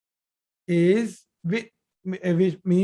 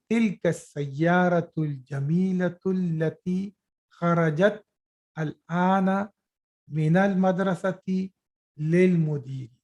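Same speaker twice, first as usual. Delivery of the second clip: a bit slower, with pauses between phrases; slower reading demo; read slowly; faster than usual. Shown as a demonstration. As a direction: break the sentence into parts with small gaps. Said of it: "Now let me re-, read it slowly".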